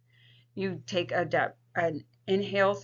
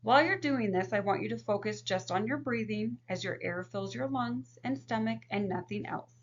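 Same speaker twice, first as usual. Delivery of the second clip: calm counselor voice. Shown as a demonstration. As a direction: guide the client gently through breathing. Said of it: "If we were working with a client".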